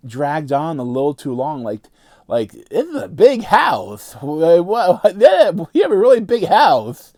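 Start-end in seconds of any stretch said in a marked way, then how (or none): 2.5-7.1 mocking movie dialogue. Reviewer mocking a horror movie's dialogue, hammed-up parody voice. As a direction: parody the awkward dialogue, hamming it up.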